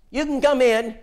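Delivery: light grandma voice; Phyllis's voice. Retold or imitated. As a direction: Phyllis calling the preacher inside.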